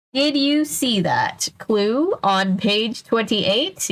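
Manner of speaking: slow, overdone read-aloud voice; odd reading voice. Shown as a demonstration. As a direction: read it like a children's book prompt. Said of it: "Why did I read it like that?".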